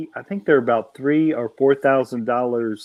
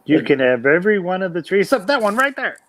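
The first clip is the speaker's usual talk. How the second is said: higher-pitched mock warning, lightly acted; 5 semitones higher, 4 dB louder, faster than usual. Modern Genesis take on the forbidden tree, mock warning. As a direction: play a lightly insistent rule-giver.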